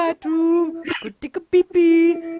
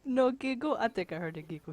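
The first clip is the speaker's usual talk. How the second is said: hushed; 5 semitones lower, 11 dB quieter than usual. Real, not acted. Hushing a friend mid-game.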